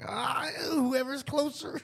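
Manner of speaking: put-on high, slow kid voice; child voice. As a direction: play the little boy, unbothered. Voicing her young son.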